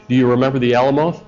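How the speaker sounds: put-on light joking Texas accent, quick. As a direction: say it like a Texan, as a pun. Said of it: "I sound like a Texan if I were to say to you".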